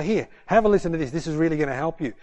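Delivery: quick, loud, eager handing over; eager offer. Retold or imitated. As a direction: rush it out, keen to share. Pastor eagerly hands Ian recordings.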